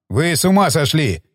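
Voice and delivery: usual speaking voice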